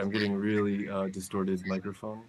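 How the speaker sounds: garbled, robotic mic distortion; distorted robot voice. Real, not acted. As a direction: sound like a glitching robot over a bad mic. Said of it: "you sound like a ro-, robot".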